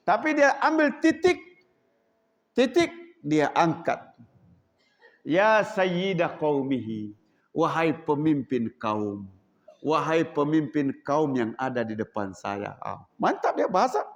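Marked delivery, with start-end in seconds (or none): 5.2-12.8 gentle respectful address. Acted. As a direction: speak with a smile. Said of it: "senyum lemah lembut".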